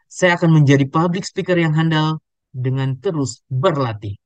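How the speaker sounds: emphatic, measured phrasing with "berlatih" set apart; varied intonation. Shown as a demonstration. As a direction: declare it with weight on "public", pausing before "berlatih". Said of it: "bagaimana intonasinya yang berbeda".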